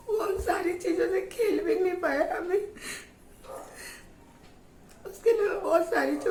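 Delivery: real tears over toys he never played with; crying while talking. Real, not acted. Mother tells viewers about her injured son's toys, crying.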